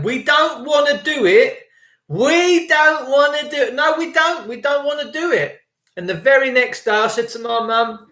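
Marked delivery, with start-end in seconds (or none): 0.0-5.6 higher, whiny mock politician; a hint of a sulky Boris; mocking Boris Johnson. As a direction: parody the prime minister's pleading. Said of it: "I remember him one day saying".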